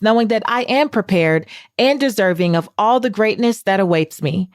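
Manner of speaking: measured, declarative affirmation read. Acted. Host leads listeners in the week's affirmation, declarative reading. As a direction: declare it with steady conviction.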